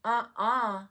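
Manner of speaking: playful mock "no" for the pet; pet's refusal. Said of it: "I think you'd go".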